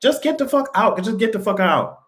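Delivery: kicking fake-crying relatives out, shouting high; mock shout. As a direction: throw them out at the top of your voice. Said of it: "I'll be like".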